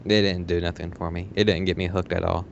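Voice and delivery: normal talking voice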